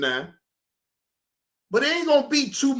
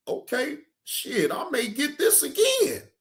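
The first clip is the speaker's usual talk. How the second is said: pleased surprise; 5 semitones higher, 4 dB quieter than usual. Retold or imitated. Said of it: "be like".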